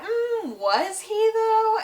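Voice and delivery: high, slow, drawn-out mock tease; lightly hammed-up smug Tom Riddle; sly villain tease. Tom's sly villain reveal.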